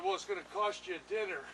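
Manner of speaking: chuckling through the line, fast; laughing joke about a dinner bill. Retold or imitated. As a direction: tease it with a laugh. Joking reply while laughing.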